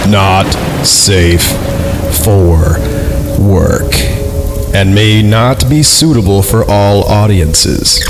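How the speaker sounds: slow, measured reading of a warning; deliberate warning readout. Acted. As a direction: spell out the warning word by word. Reads out the content warning.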